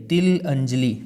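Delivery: तिल अंजलि said as two separate words; तिल set apart from अंजलि, each part clear; split into parts. Shown as a demonstration. Teacher splitting a word for students. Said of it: "तिलांजलि में देखिए यहाँ अंजलि है".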